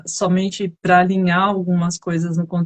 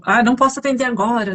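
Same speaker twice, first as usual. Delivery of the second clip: lightly imitated client, quick and higher; busy client; 4 semitones higher, faster than usual. Busy client putting off a sales call, lightly imitated. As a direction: brush off the caller in a light mock client voice. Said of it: "às vezes o cliente fala".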